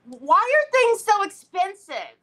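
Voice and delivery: loud, high exasperated complaint; aggravated venting. Real, not acted. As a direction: wail it in exasperation. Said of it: "I'm so aggravated".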